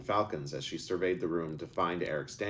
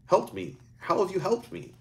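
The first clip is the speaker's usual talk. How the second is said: put-on much higher, baffled boy; puzzled disbelief in a raised voice; confused; 13 semitones higher, 4 dB louder than usual. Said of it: "Eric said with confusion".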